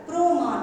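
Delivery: প্রমাণ said with an o sound after the র, as prо-maan; প্রমাণ with the rounded o vowel, pro-maan; pronunciation demo. Shown as a demonstration. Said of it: "এইভাবে আমরা উচ্চারণটা করি".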